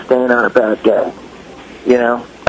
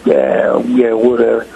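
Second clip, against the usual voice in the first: grumpy dismissal; 2 semitones lower, slower than usual. Retold or imitated. Grumpy drummer brushing off a fan, dismissive. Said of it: "you're so grumpy".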